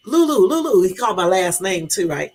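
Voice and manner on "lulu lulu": higher and louder sing-song Lulu; calling nickname. Retold or imitated. Husband calling her nickname on the phone, sing-song. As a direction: call her name teasingly, rising. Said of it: "He be like".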